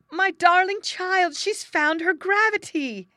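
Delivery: very high, loud shriek of delight; delighted scream. A narrator's reading. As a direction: scream it out slowly in joy, like an overjoyed old nurse.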